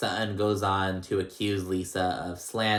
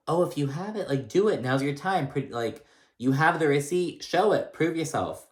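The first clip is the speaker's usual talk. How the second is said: higher, lightly voiced urging Garcelle; imitating Garcelle; 5 semitones higher than usual. Garcelle urging Sutton to show the receipt, higher imitation. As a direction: egg her on like Garcelle. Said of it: "Garcelle's like".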